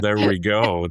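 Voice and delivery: goofy nerd character voice; nerdy voice. Shown as a demonstration. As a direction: put on the dorky Payroll Nerd voice. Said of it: "Nobody else could do the Payroll Nerd voice but you".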